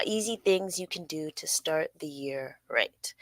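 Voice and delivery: soft whispered title read; whispering. Real, not acted. Reads article title.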